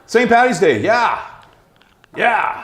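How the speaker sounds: cheering. Real, not acted. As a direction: hype up the holiday like a crowd. Cheering the holiday.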